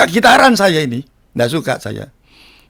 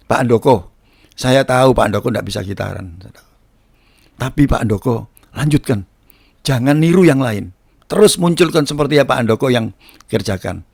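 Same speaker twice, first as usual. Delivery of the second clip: low, unhurried reassuring quote; gentle encouragement; 8 semitones lower, 3 dB quieter than usual. Retold or imitated. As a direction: encourage him calmly, voice dropped low. Guitarist gently encouraging him, retold.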